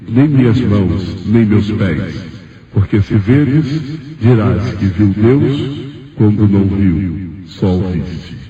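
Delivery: very slow, solemn pronouncement; measured refusal, drawing out each phrase; divine voice. Retold or imitated. God denies sight of hands and feet, very slow solemn voice. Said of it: "Ele me disse".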